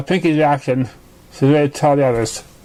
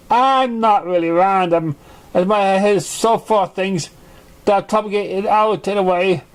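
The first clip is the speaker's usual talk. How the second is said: high Pinkie Pie voice; 4 semitones higher than usual. Acted. Pinkie explains herself.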